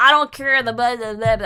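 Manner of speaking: put-on drunken, dismissive, can't-be-bothered brush-off. Retelling how an ex dismissed the speaker's excitement, imitating a drunk dismissive man. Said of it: "And he's drunk at the pub with the lads".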